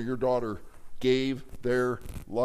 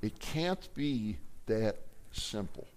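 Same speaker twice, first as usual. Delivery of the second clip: disbelieving; 7 dB quieter, slower than usual. Retold or imitated. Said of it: "here's what the person said".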